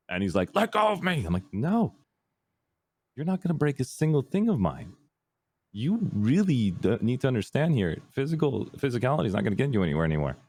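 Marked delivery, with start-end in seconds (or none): 0.5-1.2 dad yelling. Retold or imitated. Dad struggling, retold quote. 1.5-10.4 firm no. Retold or imitated. Retold standoff holding dad down.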